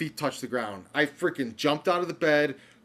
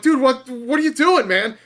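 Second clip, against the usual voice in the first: retold panic; 9 semitones higher, 9 dB louder than usual. Scared texting, freaking out.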